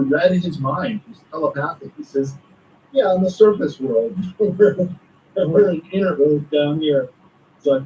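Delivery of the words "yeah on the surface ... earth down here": amused mock reply. Master answers thought, teller laughs.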